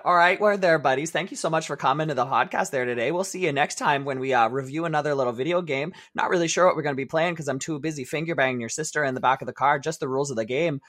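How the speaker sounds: hockey guy. Pretend. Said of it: "That one's straight from Shoresy".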